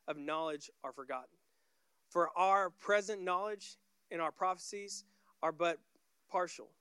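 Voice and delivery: measured, emphatic Bible reading; scripture reading. Acted. Preacher reads verse eight to the congregation, scripture reading.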